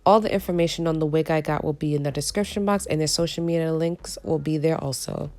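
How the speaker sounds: hoarse from a cold; raspy, cold-worn voice. Real, not acted. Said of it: "Excuse my raspy voice, I am recovering from a cold".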